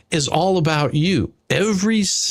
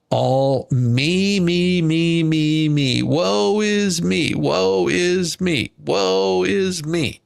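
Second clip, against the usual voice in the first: mock self-pity; 2 semitones higher, much slower than usual.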